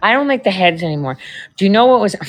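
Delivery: ordinary delivery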